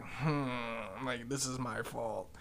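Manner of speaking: low, quiet retold self-blame; sheepish murmur. Bystander realising he caused the fight, quietly sheepish. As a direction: own up under your breath. Sheepish aside, hand over eyebrow.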